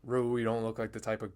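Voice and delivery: soft, understated calm voice; retold calm menace. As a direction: quote the dealer calmly, without any push. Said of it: "She just said it so calmly".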